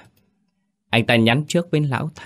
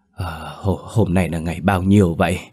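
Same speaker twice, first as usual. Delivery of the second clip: dazed. Acted. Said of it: "giọng mê man".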